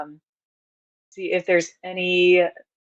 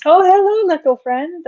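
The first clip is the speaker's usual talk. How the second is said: cooing at a creature; 12 semitones higher, 5 dB louder than usual. Acted. Greeting the Venus flytrap.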